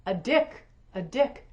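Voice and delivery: slow, high, loud proclamation with arms flung wide; hammed-up divine thunder, fading with each repeat; booming mock voice of God. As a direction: boom it out like God from on high, then let it die away. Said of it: "she threw her arms wide and boomed".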